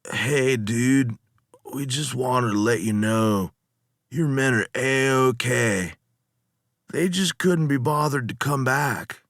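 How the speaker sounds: laid-back surfer dude, words sliding together; slurred stoned dude. Acted. Lotus eater reassuring the captain, slurred stoner voice. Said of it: "Their speech was slurred".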